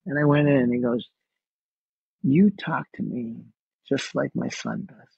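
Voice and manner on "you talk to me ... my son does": slow, measured imitation of Dad; slowly, letting each phrase land; retold tenderness. Father with dementia to his son, retold slow and tender.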